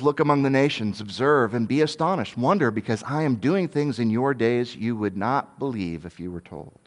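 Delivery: lightly voiced solemn God; a hint of God's voice. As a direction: answer as God, calm and grave. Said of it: "he says".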